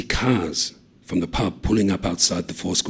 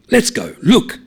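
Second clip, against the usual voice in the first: urgent; 13 semitones higher, 7 dB louder, slower than usual. A narrator's reading. Thomas urges them.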